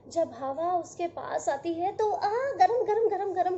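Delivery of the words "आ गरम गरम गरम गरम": hot puff. A narrator's reading. Wind hurrying away, "hot hot.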